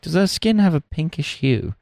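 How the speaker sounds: retold sitcom question. Friend grilling friend about a woman, mock sitcom voice. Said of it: "He's like".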